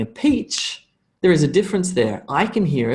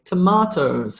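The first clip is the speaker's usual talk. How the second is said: Australian accent; 4 semitones higher than usual. Shown as a demonstration. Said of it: "because I have an Australian accent".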